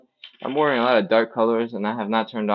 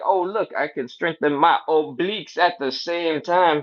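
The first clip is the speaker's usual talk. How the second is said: excited; 5 semitones higher than usual. Retold or imitated. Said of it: "'cause you're like".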